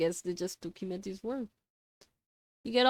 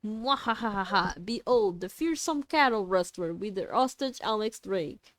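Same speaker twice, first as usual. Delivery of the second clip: mad scientist; 3 dB louder than usual. Acted. Villain announcing hostage.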